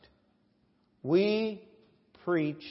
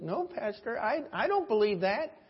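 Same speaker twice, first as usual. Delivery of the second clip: meek churchwoman; 4 semitones higher than usual. Retold or imitated. Voices woman answering her pastor.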